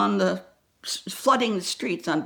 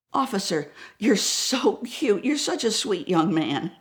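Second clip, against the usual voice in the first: mock sweet talk to the officer; sweet flattery. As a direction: charm the young cop. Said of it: "my black suit and my pearls".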